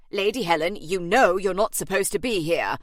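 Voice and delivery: agent's put-on voice, pained and exasperated; exasperated but sorry for her; pity and exasperation. A narrator's reading. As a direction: scold with pity. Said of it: "in a voice that expressed both pity and exasperation".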